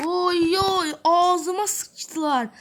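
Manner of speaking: high, loud wail of dismay; anguished yell. Real, not acted. Gamer wailing as enemies combo him. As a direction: cry out as the combo lands.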